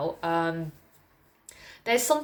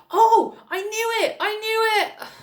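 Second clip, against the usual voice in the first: much higher, louder, slow mock gloat; smug coworker; 7 dB louder, slower than usual. Coworker gloating about her origins, high slow mock gloat. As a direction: gloat like you cracked the case. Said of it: "they just went".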